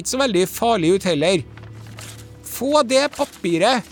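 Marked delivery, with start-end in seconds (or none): 2.4-3.9 mild mock shout. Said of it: "roper mellomsten".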